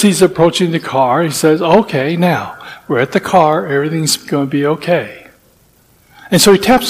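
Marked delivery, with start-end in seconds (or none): 1.6-5.3 soft, steady reassurance under pressure; a hint of a frazzled father keeping calm; calm soothing. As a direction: talk yourself down gently, a touch quieter. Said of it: "so calm through all of this".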